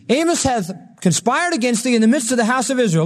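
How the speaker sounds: preacher voicing a formal accusation; accuser's declaration. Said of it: "this is what he said".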